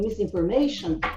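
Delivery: words run together, rattled off fast. Showing how a character's name sounds when pronounced fast. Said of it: "quando você pronuncia rápido".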